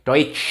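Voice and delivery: "Deutsch" as doitch, long sh; tsh ending. Shown as a demonstration. Teacher confirming the reading, long tsh. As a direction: draw out the end of "Deutsch". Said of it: "Jadi ini bacanya".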